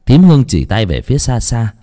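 plain reading voice

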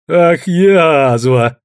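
drawn-out flirtatious jab; a mock-scolding tease; playful exclamation. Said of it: "игриво воскликнул Белобрысый".

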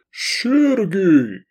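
höher und lauter, gewaltiger Ruf; dröhnend. A narrator's reading. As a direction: ein Riese brüllt freudig den Namen. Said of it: "грянул великан".

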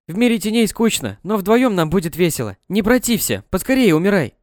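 чуть выше, ласково-зловещая девочка-призрак; зазывает утопающую за собой; голос девочки-призрака. Acted. (призрачная девочка зовёт Лизу, чуть выше)

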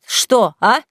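loud, angry outburst; husband furious at being deceived; barking accusation. A narrator's reading. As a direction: throw the accusation at her. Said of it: "рявкнул Саид".

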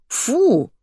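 high-pitched "ugh" of disgust; mild acted squeal. A narrator's reading. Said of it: "взвизгнула она".

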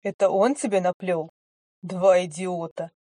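cackling hell torturer. Acted. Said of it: "расхохотался, громко и как-то зло".

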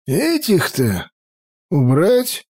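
put-on high, lively girl voice; sulky teenage granddaughter; young girl voice. A narrator's reading. Sylvia asks.

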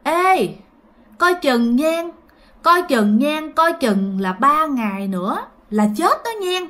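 ominous warning. Retold or imitated. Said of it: "ông mới nói rằng á là".

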